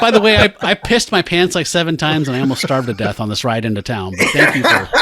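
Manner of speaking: laughing mock complaint. Kid's imagined complaint, laughing.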